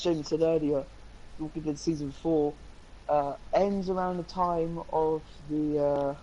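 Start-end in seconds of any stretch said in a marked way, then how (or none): 3.1-6.1 halting, stumbling over words; stuttering. Real, not acted. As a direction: trip over the words, slowly. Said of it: "I'm stuttering a lot".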